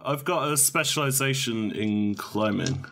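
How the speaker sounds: a hint of a Southern accent. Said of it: "You sound so southern".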